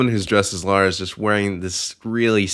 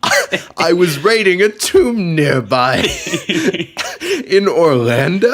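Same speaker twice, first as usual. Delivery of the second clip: high, louder British voice broken by laughter; mock British accent; 9 semitones higher, 5 dB louder than usual. Host voicing Lara cosplayer in mock British accent, laughing. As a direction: put on the accent and crack up. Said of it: "wrong accent".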